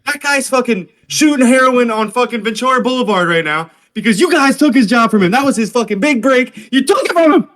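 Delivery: outrage climbing to a high pitch; mock accusing rant.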